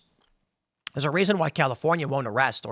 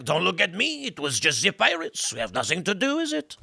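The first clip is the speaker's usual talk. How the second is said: mock innocent denial, softer at the end; France playing innocent; 4 dB quieter than usual. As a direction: shrug it off like a guilty nation. France denying sending pirates.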